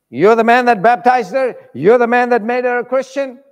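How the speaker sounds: confronting the pastor. Acted. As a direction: demand it, stick in hand.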